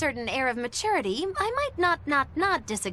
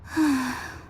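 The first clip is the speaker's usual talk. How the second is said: lethargic sigh. Acted. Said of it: "Were you just trying to imitate her?".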